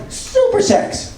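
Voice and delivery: very high breathy squeak, whispered; squeaky old lady. Retold or imitated. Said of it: "she goes".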